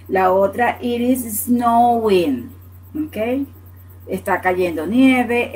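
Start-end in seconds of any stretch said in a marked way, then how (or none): 0.8-2.5 it is snowing said slowly, NG sounded at the end; slow demo. Shown as a demonstration. Teacher modeling snowing for the class, slowly. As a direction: draw out snowing and finish on NG. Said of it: "Y N G al final".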